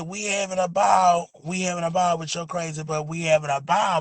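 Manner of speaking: quoted the wrong way, at normal speed. Retold or imitated. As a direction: say it quickly as someone else did. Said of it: "She said".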